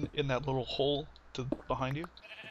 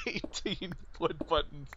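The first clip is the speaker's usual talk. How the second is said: laughing; 3 semitones higher, slower than usual. Real, not acted. Laughing at own mistake.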